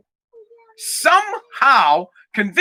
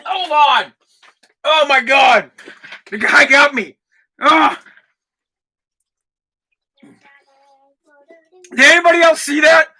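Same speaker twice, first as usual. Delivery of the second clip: just swallowed a bug; 2 semitones higher than usual. Real, not acted. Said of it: "It flew right into my fucking mouth".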